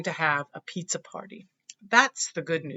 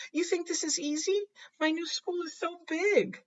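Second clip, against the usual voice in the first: put-on nervous boy; 3 semitones higher than usual. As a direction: let the boy's fears tumble out, voice pitched up. Reads Justin's nervous confession.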